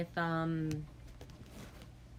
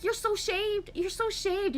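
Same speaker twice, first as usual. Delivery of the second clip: mock dismay; 13 semitones higher than usual. Dismay at dad's shaved head.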